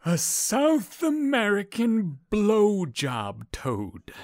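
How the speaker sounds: high, slow line breaking into laughter; matter-of-fact. Retold or imitated. Tully delivers his joke's punchline, laughing through it. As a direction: try to deliver it deadpan but crack up laughing. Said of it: "The older guy says matter-of-factly".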